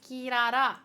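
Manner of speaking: calling out again. Real, not acted.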